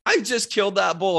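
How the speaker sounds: retold excited brag to a friend. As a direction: tell him the news, buzzing. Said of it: "I'm like".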